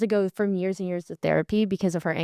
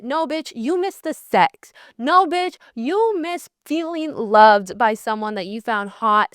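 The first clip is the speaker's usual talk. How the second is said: sassy tough-love correction; sassy scolding; slower than usual. Real, not acted. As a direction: snap yourself out of it. Scolding her own weak self.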